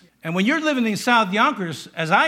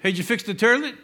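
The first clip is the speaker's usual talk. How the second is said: mock Brooklyn accent; 3 semitones higher, faster than usual. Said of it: "they're turlets".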